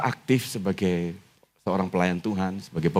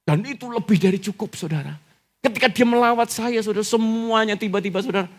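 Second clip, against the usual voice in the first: raised, emphatic preacher's voice; fervent preaching; 13 semitones higher, 3 dB louder than usual. Real, not acted. Preacher testifies to congregation of sudden change, fervent. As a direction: drive the testimony home at a high pitch.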